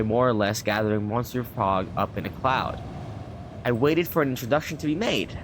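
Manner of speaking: measured storybook reading voice; lightly performed narration; story narration. A narrator's reading. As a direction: read it like an old travel novel. Reads the game's story text.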